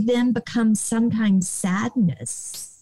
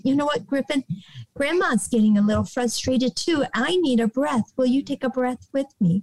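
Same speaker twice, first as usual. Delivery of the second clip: gentle grandma; 3 semitones higher, faster than usual. Retold or imitated. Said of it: "I'll say".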